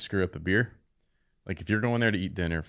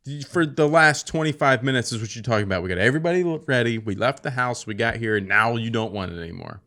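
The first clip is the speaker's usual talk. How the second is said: exasperated rant; 3 semitones higher, 5 dB louder than usual. Retold or imitated. Husband scolding wife's cravings.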